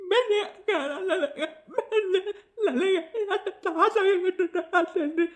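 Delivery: a weepy, half-laughing plea for forgiveness; tearful pleading. Acted. Husband begs the elder sister's forgiveness through a put-on sob.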